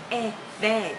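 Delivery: "bad" with a short e vowel, like bed. Shown as a demonstration. Teacher contrasting vowels, "bad" like bed. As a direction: keep the mouth half closed on "bad". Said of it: "Một cái là E".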